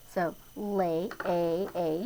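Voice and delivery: "lay, A, A" with the long a repeated; sounding out. Shown as a demonstration. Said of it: "Do you hear the long A sound?".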